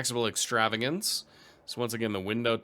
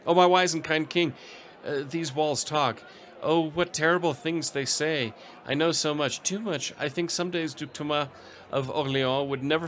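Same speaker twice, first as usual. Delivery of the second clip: anxious servant; 4 semitones higher than usual. Acted. A servant blurting gossip to her king, anxious and gushing. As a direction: spill the secrets like a nervous maid. Voices the servant's event text.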